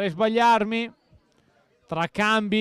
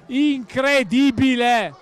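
incredulous; 4 dB louder, much slower than usual. Real, not acted. After the post, disbelief.

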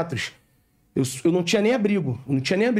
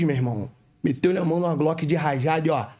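normal talking voice

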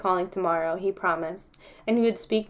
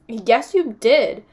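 insistent; 2 semitones higher, 7 dB louder, much slower than usual. Acted. Kids quarrel in class.

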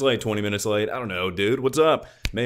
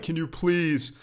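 higher-pitched mock British complainer; mock British accent; 4 semitones higher than usual. Streamer mimicking viewers' complaints, mock British accent. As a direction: imitate a pleading British messenger, pitched up. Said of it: "D Ms being like".

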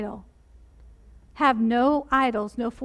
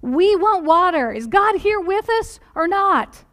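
higher, louder mock whine that slows at the end; whining complaint; 3 semitones higher, 4 dB louder than usual. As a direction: plead like thirsty, grumbling Israelites. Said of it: "complain and whine to Moses and say".

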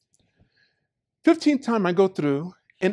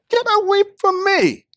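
telling him off; 13 semitones higher, 5 dB louder than usual. Retold or imitated. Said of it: "I said".

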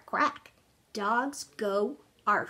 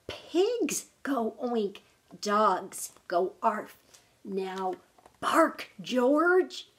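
mother's rising impatience, louder on bark George; slow scolding that builds to a firm, louder command; getting angry; 4 dB louder, much slower than usual. Acted. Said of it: "She's getting a little angry".

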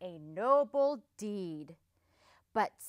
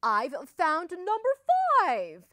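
raised singsong announcement, loud enough to carry; sweet call; 7 semitones higher, 8 dB louder than usual. A narrator's reading. Wolf returning the lost duckling, sweet calling tone. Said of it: "he called sweetly".

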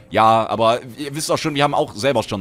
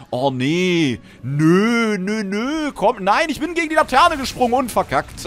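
rising higher and louder in frustrated disbelief; dismayed squeal; 10 semitones higher, 3 dB louder, slower than usual. Real, not acted. Gamer to viewers after jumping into a lamppost, high frustrated wail. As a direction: wail at your own failure, climbing up. Dies in battleground, challenge failed.

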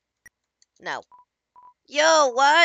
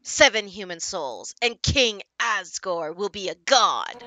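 slow, slightly lower anime villain; lightly voiced slow anime baddie; 4 semitones lower than usual. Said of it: "I'm trying to do my best anime voice".

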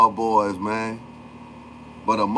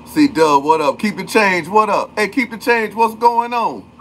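excited greetings; 8 semitones higher than usual. Real, not acted. Streamer greeting chat, rising and excited. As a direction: hype up each new name as it pops in.

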